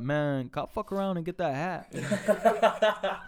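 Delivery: slow, laughing retelling; can barely get it out for laughing; giggling mock request; laughing through quote. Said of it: "he's like".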